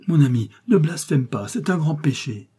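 mild fright, begging him not to blaspheme; frightened cry. Acted. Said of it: "s'écrie Marthe, avec un mouvement de frayeur". (s'écrier avec frayeur, plus haut et plus fort)

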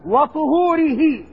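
"وطهوره" as wa-tu-HOO-ri-hi, drawn out; slow "وطهوره" with rounded tu-; damma on the first letter. Shown as a demonstration. Teacher contrasting with the previous word, damma on the first letter. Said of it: "الطريقة التي تطهر بها".

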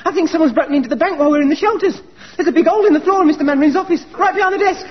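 alarmed excitement. Acted. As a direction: blurt out the alarming discovery. Discovers break-in, tells Janet.

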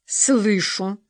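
a hint of firm resolve; firmly, decision made. A narrator's reading. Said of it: "твёрдо произнесла".

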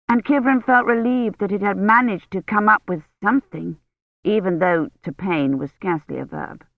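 usual speaking voice

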